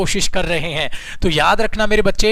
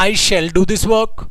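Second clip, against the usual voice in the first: plain sentence drawn out slowly; slow plain dictation; much slower than usual. Shown as a demonstration. Teacher dictating the plain sentence slowly. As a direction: read it out slowly for students to repeat. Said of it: "sentence सिर्फ ये बोलता हूं".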